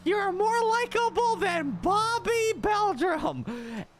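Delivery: slow mock-solemn congratulations; sarcastic congrats. Comedian mockingly congratulating co-host, slow and sarcastic. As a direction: hand him a fake award.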